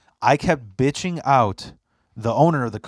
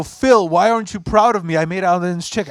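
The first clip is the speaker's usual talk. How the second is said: mock proud friend; 5 semitones higher than usual. Friend bragging to Phil in the car, higher mock voice. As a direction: play the friend fishing for praise.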